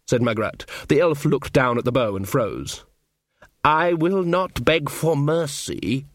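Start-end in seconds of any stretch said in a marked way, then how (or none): 3.6-6.1 slow, cold elf voice; proud even at bowpoint. Acted. Elf refusing to beg Magrat, slow and proud.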